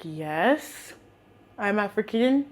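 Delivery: quiet, drawn-back confirmation; deadpan answer. Retold or imitated. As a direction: answer with no eagerness at all. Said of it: "I didn't say it like that".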